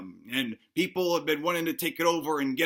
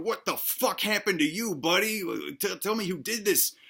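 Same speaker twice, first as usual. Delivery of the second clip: higher-pitched, concerned king; mock alarm; 3 semitones higher than usual. King to his mutilated buddy, appalled and higher. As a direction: act out shocked concern for a battered friend.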